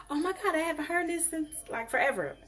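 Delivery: put-on light excited squeal over an old favourite song; super excited. Host mimicking herself hearing Christmas music, excited gush. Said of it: "And I'm like".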